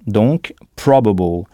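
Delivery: probable with the first syllable hit; stress on PRO. Shown as a demonstration. Teacher stressing the first syllable of probable. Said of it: "on insiste en anglais sur la syllabe qui précède".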